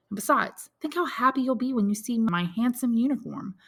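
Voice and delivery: son briskly taking stock; lightly voiced young Albert.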